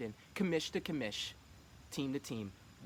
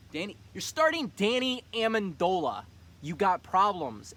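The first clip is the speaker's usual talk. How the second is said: loud trash talk; 6 semitones higher, 9 dB louder than usual. Real, not acted. Trash-talking friend's fantasy roster.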